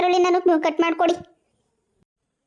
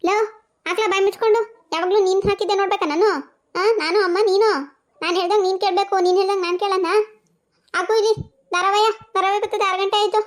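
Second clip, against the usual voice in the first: higher, sharp mock scolding; scolding mother; 5 semitones higher than usual. Mother scolding son to switch to her serial, higher and sharper. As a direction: put the son in his place.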